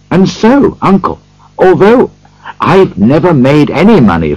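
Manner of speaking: sincere, eager nephew; earnest appeal. A narrator's reading. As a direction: defend it with earnest feeling, voice lifted. Nephew earnestly defends Christmas.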